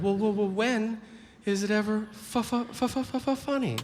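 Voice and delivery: mock audience member, rising and stammering on fu-; stuttering skeptic. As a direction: imitate a doubter tripping over the word funny. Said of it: "you're like".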